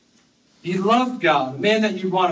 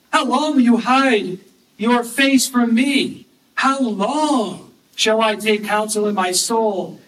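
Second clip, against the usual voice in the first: psalm reading. Acted. Reads psalm lament.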